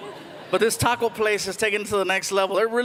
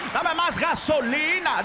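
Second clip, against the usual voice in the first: higher, stretched Puerto Rican punchline; Puerto Rican Spanish; 5 semitones higher, slower than usual. Shown as a demonstration. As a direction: cap the fast Puerto Rican run with a drawn-out hook. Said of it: "you guys speak Spanish".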